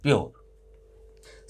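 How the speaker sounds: प्योर drawn out very slowly and softly; slow model word. Shown as a demonstration. Teacher draws out प्योर slowly for pupils. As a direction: stretch प्योर slowly so children hear each sound. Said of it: "ये हो गया आपका".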